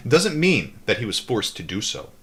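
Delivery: steady read-aloud narration; calm audiobook-style reading; book reading. A narrator's reading. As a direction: read the memoir aloud evenly.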